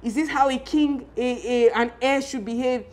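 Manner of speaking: a hint of a raging king, not truly shouted; retold screaming king. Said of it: "He's really screaming".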